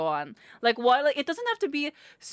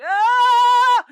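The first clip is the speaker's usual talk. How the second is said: high loud excited squeal; shrill mock fangirl squeal; 13 semitones higher, 13 dB louder than usual. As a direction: squeal like at a concert. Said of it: "And I'm like".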